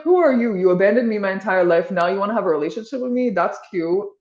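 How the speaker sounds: put-on sarcastic inner child. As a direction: throw it back at her with scorn. Inner child rejects her, retold.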